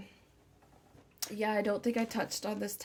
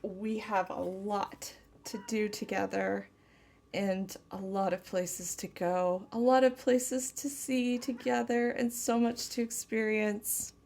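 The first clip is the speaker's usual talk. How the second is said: tender channeled lover. Acted. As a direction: speak as if to the one you love, gently. Channels partner's loving message.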